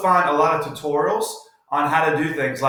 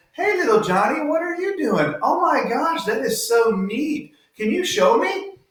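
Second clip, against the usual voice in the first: excited praise; 10 semitones higher than usual. Pretend. Teacher voices praising a child.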